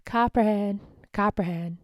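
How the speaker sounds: a loud sing-song jeer of the nickname; mocking taunt. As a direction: taunt him like the school bullies would. Bullies' taunt chanted in the poem.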